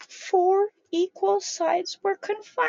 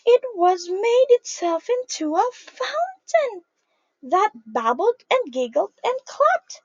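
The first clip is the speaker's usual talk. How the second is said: lively picture-book read-aloud; reading to children. A narrator's reading. Teacher reading a picture book to children, lively storytime voice. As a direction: read it out to a group of little kids.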